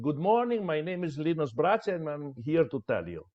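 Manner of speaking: flat routine self-introduction, trailing off; dull standard opening. Shown as a demonstration. Coach showing students a weak opening, dull and routine. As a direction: recite a stock greeting like a bored beginner. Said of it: "Never start saying".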